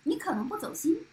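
laughing as you say it. Real, not acted. Laughing banter.

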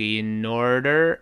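in order lifting gradually upward; in order with an upward tune; rising in order. Shown as a demonstration. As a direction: let the voice climb through order. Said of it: "声音开始往上扬一点儿".

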